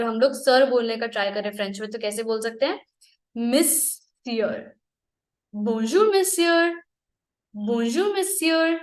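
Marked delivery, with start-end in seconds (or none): 3.4-8.8 slow model phrase. Shown as a demonstration. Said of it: "slow repeated model phrase".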